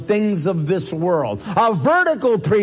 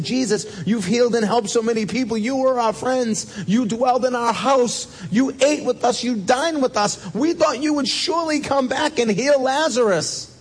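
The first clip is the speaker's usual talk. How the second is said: pleading mourners; 6 semitones higher than usual. Acted. Voicing the mourners' complaint to Jesus.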